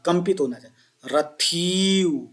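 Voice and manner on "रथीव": रथीव said very slowly, the थी syllable drawn out with a tremor; vibrated thi. Shown as a demonstration. Teacher showing students a trembling थी in रथीव. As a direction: stretch the थी in रथीव and let it quiver. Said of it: "थी का उच्चारण कंपन युक्त होना चाहिए".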